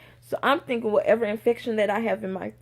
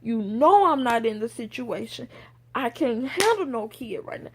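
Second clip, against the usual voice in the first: retold bawling; 3 semitones higher than usual.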